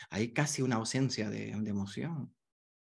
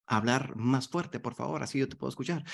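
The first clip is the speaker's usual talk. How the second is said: gentle request. Shown as a demonstration. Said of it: "Así, eh".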